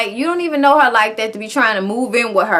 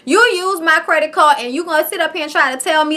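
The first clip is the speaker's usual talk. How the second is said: mock indignation; 4 semitones higher than usual. Retold quarrel over credit card.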